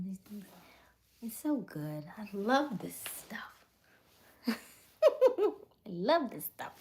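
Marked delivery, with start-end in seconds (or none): 4.5-6.7 real laugh breaking into the words; slow, gleeful, laughed-out words; laughing delight. Real, not acted. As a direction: say it through high, loud laughter. Laughs while repeating her delight.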